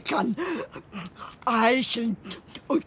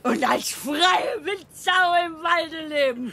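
higher, proud shout of freedom; queen defying the king, shouting with glee; defiant shout; 6 semitones higher than usual. Acted. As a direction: throw it out like a declaration of independence. Queen refuses to return to castle.

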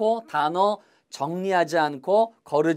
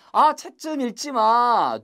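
acted complaint; 5 semitones higher, slower than usual. Acted example of telling off.

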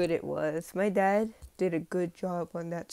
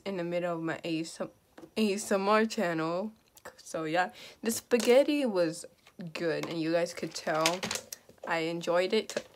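talking through hiccups; words broken by hiccups. Real, not acted. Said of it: "I have the hiccups".

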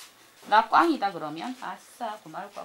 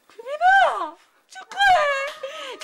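high, loud drawn-out congratulation; booming prize announcer; 13 semitones higher, 9 dB louder, much slower than usual. Pretend. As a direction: call the winner's name like a game show host. 당첨자에게 축하 외침. (우렁찬 경품 발표자)

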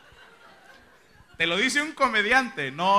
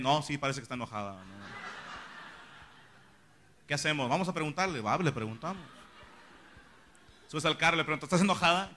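much softer, conspiratorial hush; 6 semitones lower, 12 dB quieter than usual. Retold or imitated. Friends whispering by the car about the angry girlfriend, softer hush. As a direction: keep it low so she can't hear.

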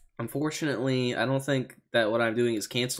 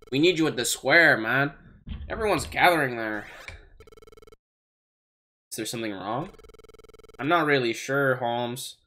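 Lombre voice. Acted. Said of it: "Every time I do this fucking voice".

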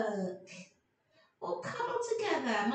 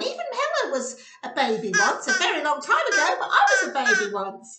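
louder, giggly puppet chatter; a cheeky little puppet teasing Helen; 6 dB louder than usual. Acted. Puppet Oscar keeps talking.

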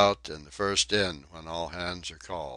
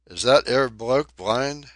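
mock-astonished, higher and louder; affected surprise; 5 semitones higher, 9 dB louder than usual. Donkin mocking the crew with put-on surprise. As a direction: fake amazement for the crowd. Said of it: "with affected surprise".

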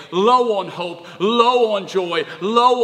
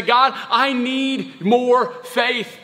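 prayerful plea; 4 semitones higher than usual. Acted. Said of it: "We go to Jesus and we say".

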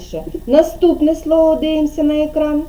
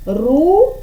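"Рука" split, rising "Ру", pause, then "ка"; syllable by syllable; 3 semitones higher than usual. Shown as a demonstration. Teacher dividing the word for a pupil, "Рука" syllable by syllable. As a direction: say "Рука" as two separated syllables. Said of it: "піднебіння і ділимо".

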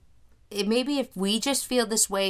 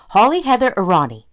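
sister's excited greeting; 3 semitones higher, 5 dB louder than usual. Retold or imitated. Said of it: "she was like".

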